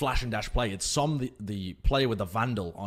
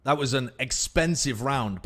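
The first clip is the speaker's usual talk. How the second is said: louder, higher excited recap; esports caster; 4 semitones higher, 5 dB louder than usual. Acted. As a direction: hype the clutch play. Caster breaks down the clutch.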